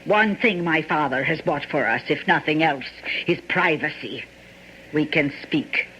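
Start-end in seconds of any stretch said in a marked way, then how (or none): 4.9-5.9 breathy hush, sure no one listens; hushed whisper. Acted. Private talk about privacy.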